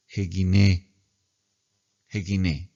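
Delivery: jeguiné said with an h sound before guiné, run together as one word; Greek word read aloud. Shown as a demonstration. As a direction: model pronunciation for students. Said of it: "Entonces, ¿cómo se lee?".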